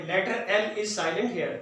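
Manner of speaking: each word spaced out slowly; slow and deliberate. Shown as a demonstration. Teacher stresses the silent letter for students, slowly. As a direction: spell the rule out word by word. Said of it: "teacher states spelling slowly".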